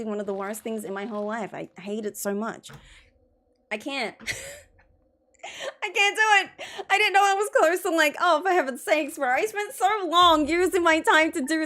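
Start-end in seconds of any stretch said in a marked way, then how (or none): 5.8-11.7 exasperated. Real, not acted. Exasperated at losing game time.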